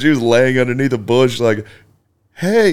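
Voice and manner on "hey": feeble cry for help. Retold or imitated. Grandma calling from under bush.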